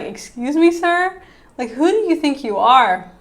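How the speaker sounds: indignant, pitch jumping on sir; mock-offended pushback, not shouting; offended retort. Wife snapping back at her husband, indignant. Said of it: "that just sets her off".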